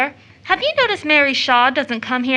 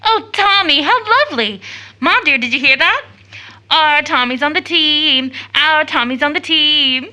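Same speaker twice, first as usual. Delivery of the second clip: light up at the good news; delighted; 2 semitones higher than usual. Acted. Sister thrilled at brother's news.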